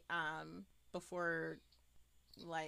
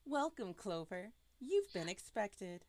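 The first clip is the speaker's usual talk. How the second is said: creepy disembodied voice. Acted. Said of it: "the creepy voice".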